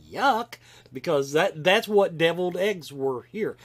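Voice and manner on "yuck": higher-pitched, quoted "yuck"; disgusted reaction. Retold or imitated. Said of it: "I'm like".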